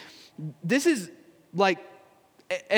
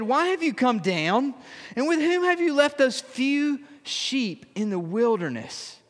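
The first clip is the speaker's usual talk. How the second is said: sarcastic; 3 semitones higher than usual. Acted. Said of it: "Hear the sarcasm?".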